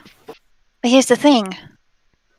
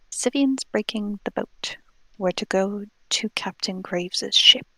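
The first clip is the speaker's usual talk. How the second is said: whisper; 7 dB quieter than usual. Acted. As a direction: lean in and whisper it secretly. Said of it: "I'm going to whisper in his ear".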